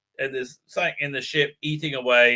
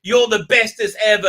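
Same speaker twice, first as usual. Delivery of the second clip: mocking encouragement; 5 semitones higher, 3 dB louder than usual. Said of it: "calls up the nurse and says".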